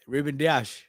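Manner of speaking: Dias as "DEE-ash", sh at the end; proper pronunciation. Shown as a demonstration. Trying the odd-sounding name, Portuguese pronunciation. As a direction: say Dias with a final sh. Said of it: "it sounds weird".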